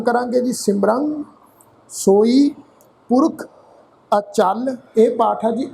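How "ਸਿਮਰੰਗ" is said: ਸਿਮਰੰਗ with a nasal ਰੰ; nasal pronunciation. Shown as a demonstration. Teacher demonstrates the tippi nasal sound, carefully. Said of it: "ਟਿੱਪੀ ਦਾ ਨਾਸਕੀ ਉਚਾਰਨ".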